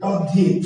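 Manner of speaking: তদ্ধিত said as spoken, with a doubled dh; তদ্ধিত voiced the way it sounds, not the way it is spelt; spoken pronunciation. Shown as a demonstration. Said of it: "কিন্তু আসলে উচ্চারণ করছি কি". (তদ্ধিত উচ্চারিত রূপে, দ্ধ জোর দিয়ে)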